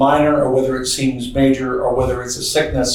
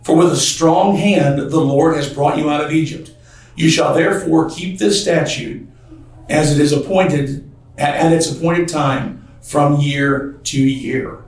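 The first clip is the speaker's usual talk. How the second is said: scripture reading. Acted. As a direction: read the verses with weight. Reads scripture aloud in sermon.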